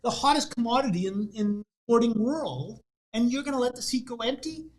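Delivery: high, loud, indignant disbelief; indignant fan. Acted. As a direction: push it up in outraged disbelief. Indignant man in told joke.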